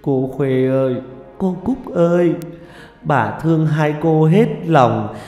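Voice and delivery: high, keening plea; keen over the unconscious mistress, stretching the words; plaintive wail rising and holding high; wailing lament. A narrator's reading. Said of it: "vừa kể nể".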